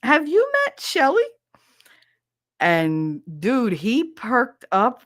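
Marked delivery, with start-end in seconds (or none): 0.0-1.2 playful intro. Retold or imitated. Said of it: "And he goes".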